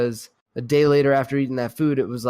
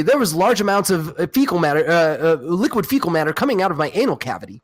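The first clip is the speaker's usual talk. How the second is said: mock clinical report; 3 semitones higher, 3 dB louder, faster than usual. Echoing a friend's joke, mock formal clinical report. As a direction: deliver it like a doctor's note. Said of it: "nicer than being like".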